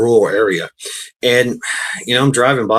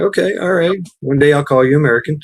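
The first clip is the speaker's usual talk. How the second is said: playful promise; 5 semitones higher than usual. Retold or imitated. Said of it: "I'm like".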